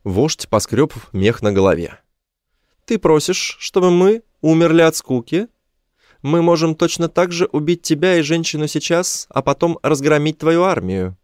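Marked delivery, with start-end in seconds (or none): 2.8-11.2 high-pitched creature voice; high, indignant alien leader; alien chief. A narrator's reading. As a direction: challenge and threaten in a high alien voice.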